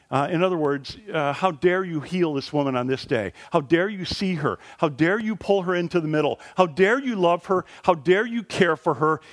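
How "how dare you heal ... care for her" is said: mock indignant leader. Indignant synagogue leader voiced.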